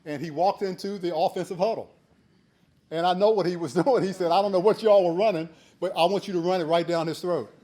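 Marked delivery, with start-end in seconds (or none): 4.3-7.5 coach's order. Retold or imitated. Coach telling the offense to run over the new kid, loud and laughing. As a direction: bark it like a gruff coach, half laughing.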